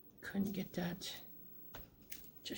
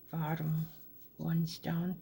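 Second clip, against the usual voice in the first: talking around a pin in mouth; mouth full; slower than usual. Real, not acted. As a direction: lips held round a pin. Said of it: "Sorry, I have a pin in my mouth again".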